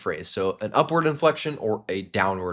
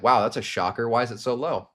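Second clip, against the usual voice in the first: taken aback. Shown as a demonstration. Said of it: "You're kind of taken aback".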